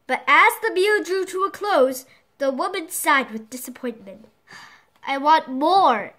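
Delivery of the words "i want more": hungry craving. Acted. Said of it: "she said hungrily".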